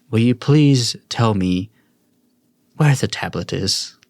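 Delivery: measured, slightly emphatic royal appeal; a hint of a king dropping his stately manner; lightly voiced king. King asks the four for the tablet, lightly voiced regal appeal. Game master plays the king.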